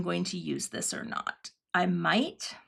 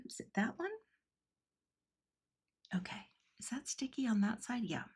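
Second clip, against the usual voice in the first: whispered aside; 13 dB quieter, faster than usual. Real, not acted. Whispered check to herself.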